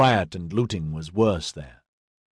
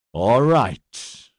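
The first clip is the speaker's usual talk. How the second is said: snarling; 3 dB louder than usual. A narrator's reading. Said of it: "Edyard snarled".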